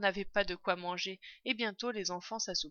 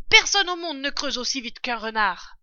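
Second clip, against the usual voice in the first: loud, raised proclamation; excited yell; 5 semitones higher, 10 dB louder than usual. A narrator's reading. Father fox rallies family to dig, yelling. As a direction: shout it out to rally everyone. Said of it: "hurla maître Renard".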